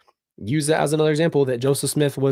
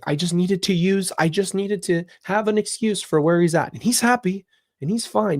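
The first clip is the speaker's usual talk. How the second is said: higher-pitched mock excuse; retold excuse-making; 5 semitones higher than usual. Retelling the friend's excuse to the police, in a higher imitating voice. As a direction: imitate her justifying herself in a raised pitch. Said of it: "And she's like".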